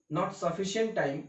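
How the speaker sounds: very slow, trailing words; slow aside. Real, not acted. Teacher explaining rushed questions to students, slowly. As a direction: let it drag out slowly. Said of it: "slow aside".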